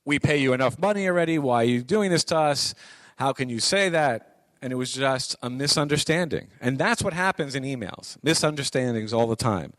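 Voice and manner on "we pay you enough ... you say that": fast, indignant complaint; upset client. Retold or imitated. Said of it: "the C F O and the owner being very upset".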